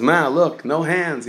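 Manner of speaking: bright high kid's call, lightly voiced; kid calling to mom.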